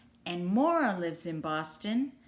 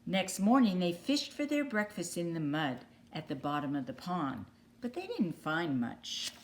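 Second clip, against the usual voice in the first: clear, lively storybook narration; reading to children. A narrator's reading. Teacher reading a picture book to young kids, storybook voice. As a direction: read it out like bedtime story time.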